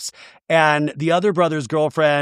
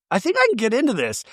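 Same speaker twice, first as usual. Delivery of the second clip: imitating Rebecca; 6 semitones higher, faster than usual. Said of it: "She was like".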